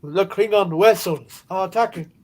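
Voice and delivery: slow, loud mock Russian accent; bad Russian accent. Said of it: "bad, uh, Russian accent there".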